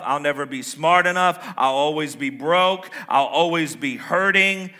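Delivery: loud, slow, woeful moaning; mock pity-party lament; Eeyore. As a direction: drag out each complaint in hammed-up self-pity. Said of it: "This is my best Eeyore impression".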